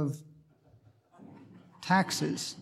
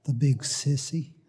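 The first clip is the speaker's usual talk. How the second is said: shaky voice; 3 semitones lower than usual. A narrator's reading. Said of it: "in a shaky voice".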